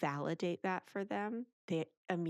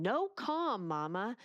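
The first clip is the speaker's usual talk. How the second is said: mock child yell; 3 semitones higher, 3 dB louder, slower than usual. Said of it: "who was yelling".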